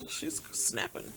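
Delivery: voiceless drop to a whisper; hushed whisper. Real, not acted. Host confiding that the rapper is breaking down, whispered. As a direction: whisper it as an aside.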